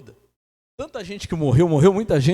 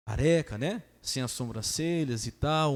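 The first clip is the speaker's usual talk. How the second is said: ordinary talk, nothing marked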